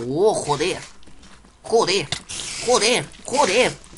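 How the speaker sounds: repeated frustrated swearing; cursing under breath. Real, not acted. Cursing while dying in game. (maldiciendo entre dientes)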